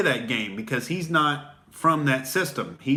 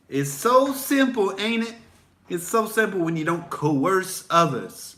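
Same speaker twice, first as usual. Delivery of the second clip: smug gloat; 5 semitones higher than usual. Acted. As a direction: savor it like you've already won. Smug libertarian gloating at the crowd.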